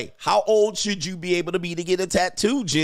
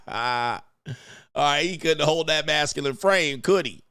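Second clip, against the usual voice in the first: ordinary talk, nothing marked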